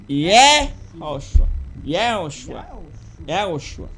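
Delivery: Yehoshua drawn out, stressed early; demonstrated pronunciation. Shown as a demonstration. Teacher modelling the name for viewers, careful pronunciation. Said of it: "a pronunciation".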